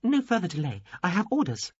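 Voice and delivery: high alien voice. A narrator's reading. Alien insists on talking.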